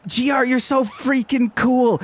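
high, gushing fangirl; Blarm. Acted. Fan runs up to G R, high and gushing. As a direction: gush like a starstruck nerd girl. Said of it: "runs up to you and is like".

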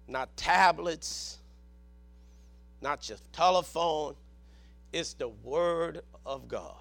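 low, soft, spaced-out phrases; quiet, low-pitched preacher's aside; hushed emphasis. Real, not acted. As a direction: drop right down in pitch and volume. Low aside listing what is not Scripture.

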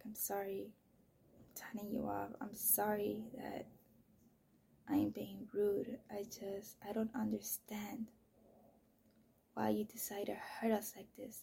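hushed, whispering apology to God; whispered prayer. Retold or imitated. Whispering to God at night while her son sleeps. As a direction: pray under your breath so the kid won't wake.

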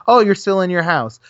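falling, knowing sarcastic remark; dry sarcastic conclusion; sarcastic statement. Retold or imitated.

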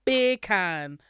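put-on jokey Jamaican accent, lightly done; drawn-out mock Jamaican accent. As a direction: pretend to speak Jamaican. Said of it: "I'm speaking Jamaican".

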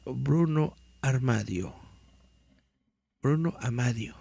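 dramatic read-aloud of a mystery article. Acted. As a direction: read it like a creepy news report.

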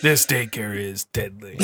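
ponderous mock-solemn pronouncement; mock movie line. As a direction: drag it out like a hammy last line. Improvised dramatic closing movie line.

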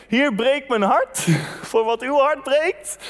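the same prayer through a chuckle, slowed; prayer quoted laughing. Retold or imitated. Preacher warning his congregation about this prayer, laughing. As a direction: laugh mid-prayer at how risky "breek mijn hart" is. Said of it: "Als je ooit bidt".

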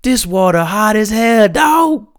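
high, amused mock complaint; a rapper. Host imitating the rapper in Iceland water, mock complaint. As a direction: yelp it indignantly, close to laughing. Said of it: "He's like, he's like".

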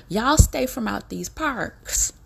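slow and loud, each word leaned on; slow, emphatic warning. Shown as a demonstration. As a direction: drag it out like a stern warning to the whole nation. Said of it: "I'm getting ready to say it just like this here".

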